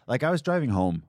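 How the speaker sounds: words pushed out through a burp. Real, not acted. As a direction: burp mid-sentence while talking. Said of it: "Excuse me".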